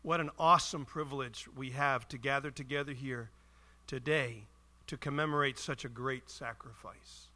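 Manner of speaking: grave, reverent welcome; solemn opening. Shown as a demonstration. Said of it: "Would it not have been better to say".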